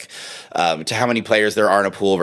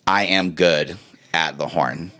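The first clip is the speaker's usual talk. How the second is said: slow, measured, slightly lower; self-affirmation; 3 semitones lower, slower than usual. Acted. Horn player to the mirror, slow self-affirmation. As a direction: say it slowly to yourself as an affirmation. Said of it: "looking in the mirror and saying".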